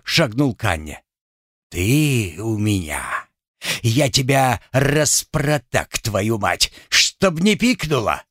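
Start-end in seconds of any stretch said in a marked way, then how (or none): 1.7-8.2 slow menacing threat; threatening husband. Acted. Husband threatening his wife, slow and menacing. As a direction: spit the threat out slowly.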